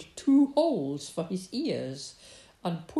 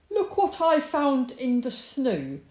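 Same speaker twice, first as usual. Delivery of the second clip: loud, higher fox announcement; excited cry; 5 semitones higher, 8 dB louder than usual. A narrator's reading. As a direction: burst in crying out the news. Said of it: "cried Fox, bursting in".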